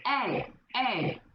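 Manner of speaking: brash mock holler at a guy; crude catcall. Woman hollering at a man in the club, brash mock catcall. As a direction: ham up a pushy woman calling out to a man.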